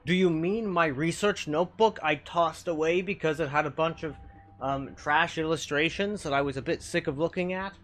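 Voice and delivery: grandiose cosmic villain voice, hammed up; lightly voiced slime monster, smug and theatrical; boastful eldritch slime.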